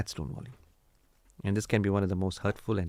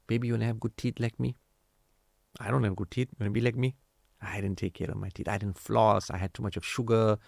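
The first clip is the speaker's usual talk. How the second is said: gentle parent talk. Retold or imitated.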